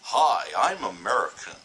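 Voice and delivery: a light put-on generic American accent, mocking the stereotype; lightly hammed Hollywood American. Mocking how Brits do an American voice, lightly put-on American accent. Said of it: "Do an American voice".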